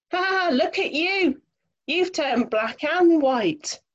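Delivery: acted teasing laugh, pitched high; hammed-up "ha, ha" then high-pitched amused teasing; mock laughing. A narrator's reading. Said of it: "Hippo and Monkey start laughing".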